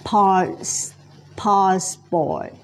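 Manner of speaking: "passport" said slowly with a clear S in the middle; careful teacher's "passport", S held before the "port"; S sounded in "passport". Shown as a demonstration. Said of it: "มีเสียง S ตรงนี้นะคะ".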